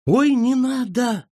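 high, slow scared plea; frightened cry. A narrator's reading. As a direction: squeal it out in fright. Frightened sister pleads.

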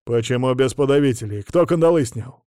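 sharp, loud guard's shout. Acted. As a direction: call it out as a stern guard. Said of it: "охранник крикнул на меня".

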